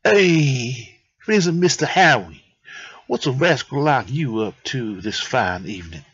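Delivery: put-on shaky go at an Italian accent; attempted Italian accent. The speaker greeting Howie, half-successful Italian accent. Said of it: "I don't know if I can do an Italian accent".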